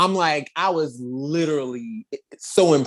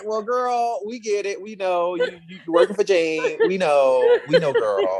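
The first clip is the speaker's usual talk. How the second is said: mocking the team; 5 semitones higher than usual. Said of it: "they're sitting there like".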